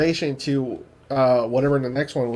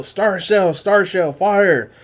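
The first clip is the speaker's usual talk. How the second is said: higher, louder barked command; captain's order; 4 semitones higher, 4 dB louder, much slower than usual. Retold or imitated. Captain ordering a flare over the battlefield, mock command. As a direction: call the flare like an officer, mock. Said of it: "you see the captain go".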